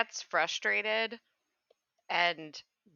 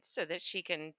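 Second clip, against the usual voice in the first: whispering; 6 semitones lower, 7 dB quieter than usual. Real, not acted. Quiet aside while casting spell.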